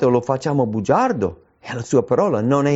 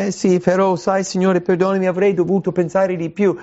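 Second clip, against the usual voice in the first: excusing oneself; 6 semitones higher than usual. Acted. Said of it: "cercando di ridurre la colpa".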